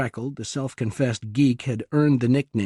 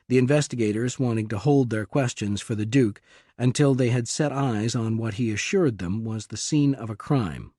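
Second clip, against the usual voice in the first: plain reading voice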